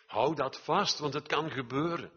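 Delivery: loud, high-pitched preaching; urgent exhortation. Real, not acted. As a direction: call it out to rouse the congregation. Preacher urging the congregation to hold on.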